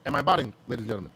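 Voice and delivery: choppy garbled connection; sped-up glitchy mic; robotic audio. Real, not acted. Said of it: "you sound like a robot".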